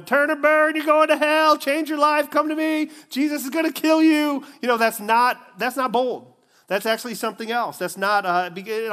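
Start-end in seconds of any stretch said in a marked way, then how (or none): 0.0-4.4 high, loud bullhorn shouting; mock street preacher yell. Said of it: "with a bullhorn going".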